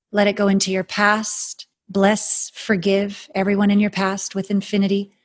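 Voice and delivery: airy breathy mystical healer. Acted. Guided stillness meditation.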